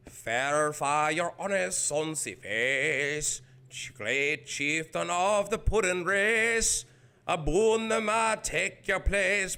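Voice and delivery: put-on slow, loud Scottish accent recital; mock Scottish declamation of the haggis ode. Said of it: "Oh, Scottish".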